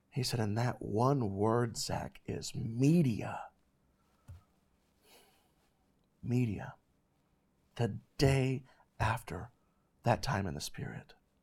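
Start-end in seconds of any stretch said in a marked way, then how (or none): 0.4-6.7 put-on shaking, trembling voice, much slower. Speaker retells a tearful man's words to Zach, retelling a shaking voice. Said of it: "his voice was almost kind of shaking".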